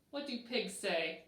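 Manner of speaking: ordinary delivery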